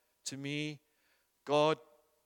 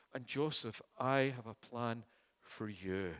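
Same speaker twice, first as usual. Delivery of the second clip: tender reassurance. Acted. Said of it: "taking him by the hand and saying".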